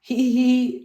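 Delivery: high, loud proud giggle; Peppa laughing. A narrator's reading. Peppa proud of her noise, high giggle. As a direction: laugh proudly like a little pig. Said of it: "laughs Peppa".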